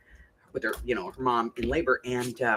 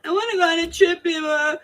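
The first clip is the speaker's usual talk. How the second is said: put-on very high-pitched child's plea; little granddaughter voice; 13 semitones higher than usual. Granddaughter asking grandma for a trip, little child's voice. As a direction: pester like a small child.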